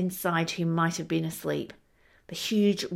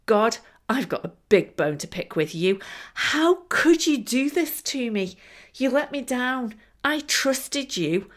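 exploding in anger; 3 semitones higher than usual. Acted. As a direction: hurl the complaints at God. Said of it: "he exploded into anger".

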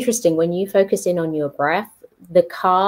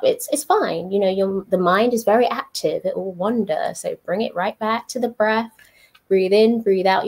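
lightly voiced meditation guide, a bit higher; guided meditation voice; 3 semitones higher than usual. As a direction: reassure like a meditation app. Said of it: "what I enjoy with those is".

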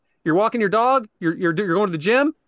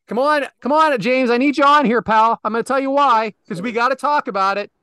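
higher, louder eager call; excited calling out; 3 semitones higher, 4 dB louder than usual. Real, not acted. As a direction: hype him up to join. Calling a friend onto the show.

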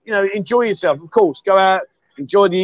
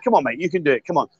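gentle coaxing; 4 semitones lower, 4 dB quieter, faster than usual. Retold or imitated. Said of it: "I was just being gentle".

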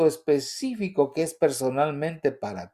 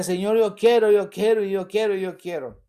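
pleading prayer fading; 5 semitones higher than usual. Retold or imitated. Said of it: "Y decía".

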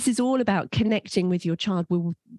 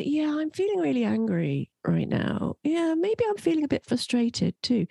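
put-on higher-pitched child politely reporting anger; unfelt anger; 8 semitones higher than usual. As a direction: imitate a child naming anger without feeling it. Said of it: "It's not enough for your child to say".

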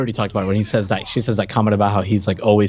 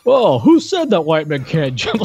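imitating Mad Dog; 7 semitones higher than usual. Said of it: "where he's like".

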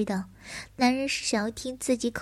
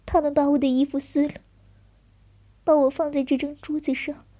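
higher and louder, growing distress; distressed, building; 4 semitones higher, 4 dB louder than usual. Acted. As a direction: push toward tears, rising. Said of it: "低声啜泣着".

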